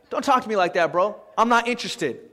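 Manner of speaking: low-key, offhand refusal to a buddy; casual brush-off. Shown as a demonstration. Just say it to a bro, casual and not interested. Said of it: "But you just say".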